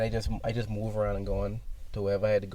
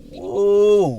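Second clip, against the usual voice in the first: loud, high, drawn-out whoa; stunned whoa; 10 semitones higher, 13 dB louder than usual. Retold or imitated. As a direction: act out being floored by the news. Retold reaction to a crazy case.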